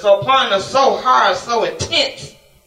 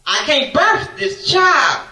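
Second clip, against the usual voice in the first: impassioned plea; 6 semitones higher than usual. Acted. Preacher pleading with God.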